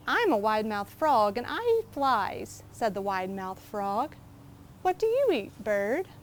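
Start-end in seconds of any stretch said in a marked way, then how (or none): 0.1-2.6 proud little frog, lightly voiced; a hint of a cheerful boasting frog. Frog character voice in story. 4.8-6.1 proud little frog, lightly voiced; a hint of a cheerful boasting frog. Frog asks the bird.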